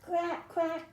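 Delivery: high-pitched storybook quack; duck quacking. A narrator's reading. Story reader voices the duck for children, quacking. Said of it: "called the duck".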